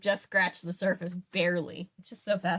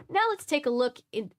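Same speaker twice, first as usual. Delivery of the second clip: announcer voice; 4 semitones higher than usual. Acted. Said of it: "should I try to do this?".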